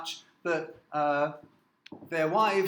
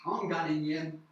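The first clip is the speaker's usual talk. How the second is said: Newcastle Geordie "I'm ganning yen"; Geordie dialect. Shown as a demonstration. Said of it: "they say".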